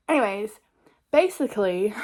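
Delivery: breathless from talking; winded, catching breath. Real, not acted. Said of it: "I'm out of breath from talking".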